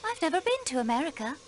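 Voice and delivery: put-on "America" in a flat American accent, quick; said quickly, accent giving her away. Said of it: "you say it with an American accent".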